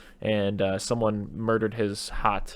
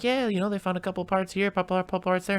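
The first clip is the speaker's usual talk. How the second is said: much higher mock interviewer voice; news interviewer; 10 semitones higher than usual. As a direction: imitate a reporter in a raised pitch. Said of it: "And they're like".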